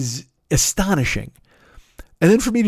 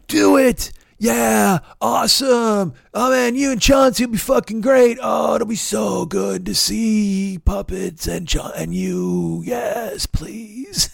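mock gushing fans; 4 semitones higher, slower than usual. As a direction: parody of overeager cheerleaders. Mocking gushing Facebook commenters.

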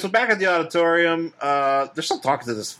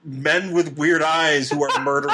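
talk show host. Retold or imitated. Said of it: "is Donahue gonna be like".

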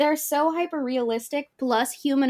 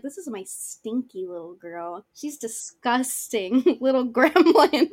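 put-on teasing girlfriend; slower than usual. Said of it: "my girlfriend is like".

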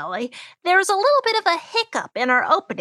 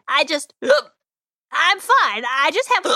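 halting speech broken by hiccups; slower than usual. Acted. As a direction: talk between hiccups.

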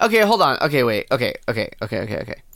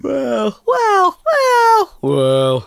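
rising well well well; 12 semitones higher, 4 dB louder, much slower than usual. Pretend. Mock ominous well well.

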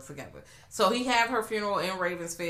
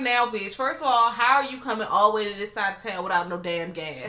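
sassy retort; 3 semitones higher, 4 dB louder than usual. Retold or imitated. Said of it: "And I was like".

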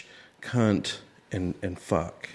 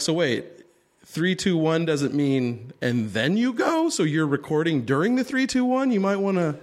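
incredulous question; 5 semitones higher than usual. Retold or imitated. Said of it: "and I'm like".

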